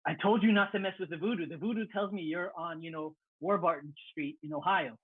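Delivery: a touch of put-on African accent; imitated thick accent. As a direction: draw out the threat in a mock warlord accent. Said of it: "he basically has this thick accent".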